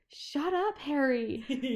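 sudden high shout at Harry; yell. Retold or imitated. Retelling a scene where Persephone yells at Harry. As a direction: snap it out as a sharp, high yell. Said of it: "she just yells".

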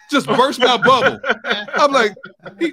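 high, loud laughing through the words. Real, not acted. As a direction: crack up as you tell it. Retelling wife's deflating reply.

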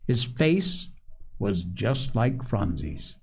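measured storybook reading; story narration. A narrator's reading. Host reads a family tale to listeners, story narration. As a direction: read the story aloud, acting out each figure.

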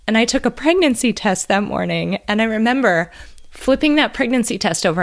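choked up while sharing a precious memory; bliska płaczu. Real, not acted. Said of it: "I'm gonna cry".

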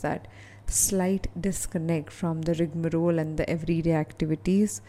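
measured, unhurried meditation guide with long pauses; guided meditation. Real, not acted. Coach leading listeners to a calm island, guided meditation. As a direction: guide the listener step by step, leaving space to breathe.

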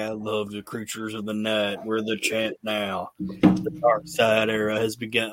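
understated spooky promo; mock Undertaker promo. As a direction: brood it like a dark wrestler. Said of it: "Creatures of the Night thing".

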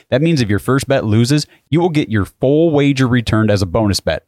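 upbeat sportsbook ad read; hyped betting ad. Acted. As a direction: sell the promo code with energy. Host reads betting sponsor ad.

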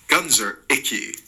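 disgust. Acted. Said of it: "said Mark with disgust".

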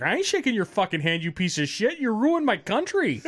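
imitated indignation, climbing high at the end; lightly hammed-up outrage; mock angry heckler. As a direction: play a fed-up local telling off a politician. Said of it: "He's like".

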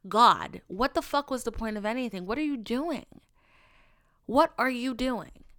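mildly exasperated self-questioning; retold upset, questioning yourself in frustration; lightly acted fed-up outburst; worked up. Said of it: "upset and very worked up".

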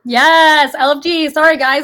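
talking while eating; words round a bite of food; mouth full. Real, not acted. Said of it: "I'm eating".

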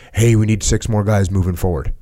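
composed, even radio call; measured, matter-of-fact radio request; calm radio voice. Retold or imitated. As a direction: say it calm and under control. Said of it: "say it calm".

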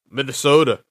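"Minnesota" in a light Minnesota accent, the t softened toward a d. Shown as a demonstration. Hockey podcaster tries the name in a mock Minnesota accent. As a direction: say "Minnesota" like a local with a mild Minnesota accent. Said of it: "trying to do my best Minnesota accent".

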